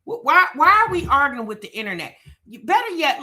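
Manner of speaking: incredulous. Real, not acted. Incredulous callout.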